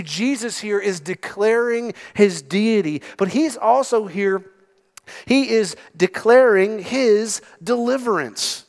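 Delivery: ordinary talk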